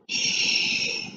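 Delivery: soft hushing shh; whispered shh. A narrator's reading. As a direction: hush a tired friend gently. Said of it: "whispered Boggin".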